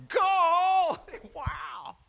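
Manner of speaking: high, far-off Gomer Pyle squeal of joy; Gomer Pyle shazam. Retold or imitated. The girl sees her new bicycle, Gomer Pyle squeal. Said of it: "Gomer Pyle moments where she just says".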